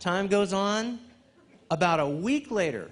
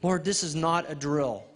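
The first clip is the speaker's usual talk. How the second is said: retold prayer. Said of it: "and I'm praying".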